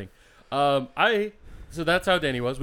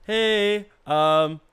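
casual check-in, pitched up, imitating a friend; mock voicemail, higher and breezily sure of himself; Sam's sure voicemail; 4 semitones higher, slower than usual. Friend leaving a voicemail to check in, mock sure. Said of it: "Man sounded sure".

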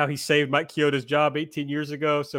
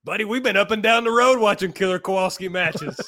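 playful Southern wrestler twang, pitched up; put-on Southern accent; 4 semitones higher than usual. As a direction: slip back into the Southern good-old-boy bit. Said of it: "I'm allowed to do the accent".

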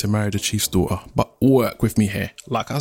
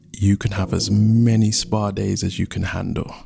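lower, soothing lover's reply; indulgent suitor; 4 semitones lower than usual. Acted. Rain promising his beloved spa days, indulgently. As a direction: reassure your beloved, low and easy.

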